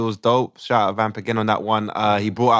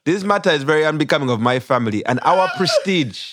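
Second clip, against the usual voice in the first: put-on Ugandan accent; 4 semitones higher than usual. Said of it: "we do it in a Ugandan accent".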